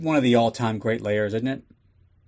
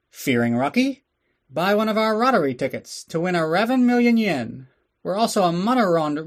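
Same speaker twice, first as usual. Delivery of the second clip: mock Asian accent ad; 5 semitones higher than usual. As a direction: sell the store like a cartoonish shopkeeper in a stereotyped Asian accent. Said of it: "let's go take a little break for the advertisements".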